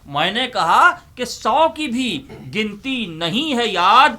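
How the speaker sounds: poem recitation. Acted. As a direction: build up to the punchline. Recites couplet with punchline.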